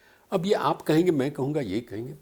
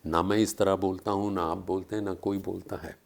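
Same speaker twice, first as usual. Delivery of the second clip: Samay's crawling voice; 3 semitones lower than usual. Shown as a demonstration. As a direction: creep through each phrase like Time itself speaking. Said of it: "रेंग रेंग के बोल रहा हूँ मैं".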